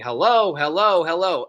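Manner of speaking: calling out. Retold or imitated. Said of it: "I'm making sure that I'm saying".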